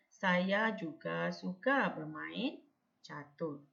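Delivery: slow reading, "bermain" rising, "catur" falling; sentence intonation. Shown as a demonstration. Teacher demonstrating sentence intonation, slow with "catur" dropping at the end. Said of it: "Ah, intonasi dia. Kalau sebutan ni lah".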